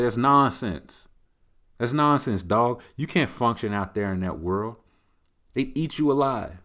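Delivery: loud, emphatic objection; exasperated owner. Acted. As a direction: push back hard at your pet in a mock argument. Acted owner arguing with the dog.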